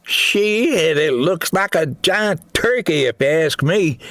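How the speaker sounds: high, wry soldier voice; Eli voice. Acted. Eli joking about the creature to the group, high and wry. Eli's character voice.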